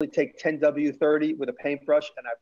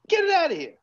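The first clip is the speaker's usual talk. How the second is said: retold shout; 13 semitones higher, 4 dB louder, faster than usual. Retold telling brother off.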